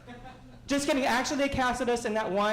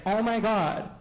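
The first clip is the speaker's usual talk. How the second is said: louder, gushing eager yes; 3 dB louder than usual. Retold or imitated. Comic tells the fan yes to a photo, gushing. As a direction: gush like you're flattered.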